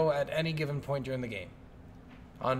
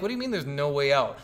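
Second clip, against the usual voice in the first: retold disbelieving retort, falling at the end; 3 semitones lower than usual. Player answering the game character back, mildly incredulous retort. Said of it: "And I'm like".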